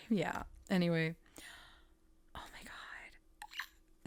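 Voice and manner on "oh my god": slow, breathless whisper of awe; hushed amazed whisper; stunned whisper. Real, not acted. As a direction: breathe it out in disbelief. Stunned aside after the card.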